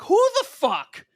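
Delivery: high, loud, drawn-out disbelief; retold indignant shock. Kid confronting whoever yelled, retold indignant shock. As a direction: stretch it out, loudly incredulous. Retold startled reaction to yelling.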